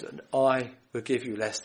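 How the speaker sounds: the word I pressed with weight; stress on I. Shown as a demonstration. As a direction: lean hard on the word I. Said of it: "The I is emphatic".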